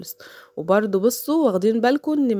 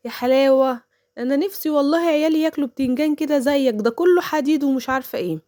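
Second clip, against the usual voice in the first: mock envious neighbour; 5 semitones higher than usual. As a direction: ham up the jealous lady's fake praise. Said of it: "قالت له". (تقليد الجارة الحسودة بصوت عالي ومبالغ)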